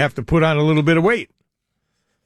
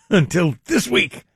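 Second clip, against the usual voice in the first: laughing repeat; 4 semitones higher, slower than usual. Real, not acted.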